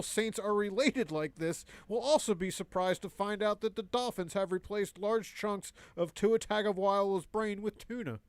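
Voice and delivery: even mock newscast delivery; joke news read. Reading a governor headline to the co-host, straight mock news read.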